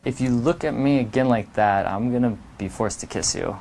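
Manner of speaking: low, soft and teasing; a sly mock warning; playful threat. Shown as a demonstration. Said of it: "it's all in the delivery".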